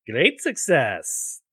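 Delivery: slow, drawn-out mock Kazakh accent like Borat; a lightly done Kazakh-accent catchphrase. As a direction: stretch it out in a hammed-up Kazakh accent. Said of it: "that was my Borat accent".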